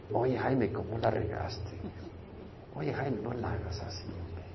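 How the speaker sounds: scolding himself. Retold or imitated. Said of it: "¿Te has hablado a ti mismo alguna vez?".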